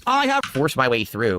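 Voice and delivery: slow, loud, grand declaration; dramatic proclamation. Acted. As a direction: boom it like an epic hero. Repeated dramatic line.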